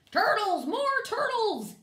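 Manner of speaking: high, very loud drawn-out call; bellowing and braying. A narrator's reading. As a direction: bray it across the whole pond. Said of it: "he bellowed and brayed".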